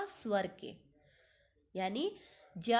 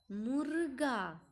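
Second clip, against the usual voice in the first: ordinary talk, nothing marked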